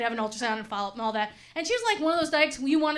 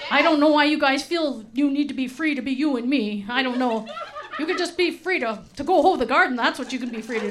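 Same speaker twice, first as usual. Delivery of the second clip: mock parent in an unplaceable Wisconsin accent; lightly imitated homespun parental accent; parents' uncertain accent. Parent dismissing the children's album, imitated odd Wisconsin accent. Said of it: "I don't know what accent that is".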